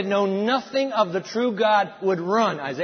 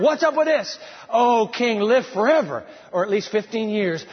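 excited good news; 3 semitones higher, 3 dB louder than usual. Acted. King and prophet, cheerful news.

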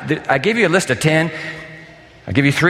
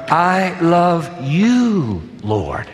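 tender declaration; much slower than usual. Acted. Preacher voicing David to God, slow and tender. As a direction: savor each word like a confession of love. Quotes David's psalm opening.

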